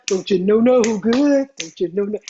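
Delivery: a light imitation of a sitcom catchphrase; Martin quote. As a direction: lightly mimic the TV line. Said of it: "on Martin when he say that".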